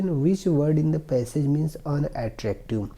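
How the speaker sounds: slow, careful reading of the English passage; slow reading aloud. Shown as a demonstration. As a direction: read each word slowly for the class. Teacher reads question slowly. (धीमी आवाज़ में अंग्रेज़ी पढ़ना)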